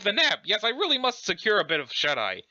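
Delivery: flustered, prim British character; exclaim, then settle in a mock-British voice; lilting British affectation; Urania Umbra. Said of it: "pretending to be British".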